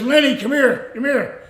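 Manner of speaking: imitated call to a passerby; calling someone over. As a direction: call him over from a doorway. Acts out wrestler calling him over.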